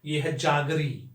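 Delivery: जागरी slow and clear, like the English jaggery; careful pronunciation. Shown as a demonstration. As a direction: say जागरी slowly, every sound clear. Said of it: "जागरी मतलब गुड़".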